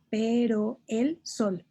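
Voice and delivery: pero el sol said slowly, pero and el linked; drawn out to show the sinalefa; slow syllable count. Shown as a demonstration. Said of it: "Serían tres sílabas porque hay una sinalefa".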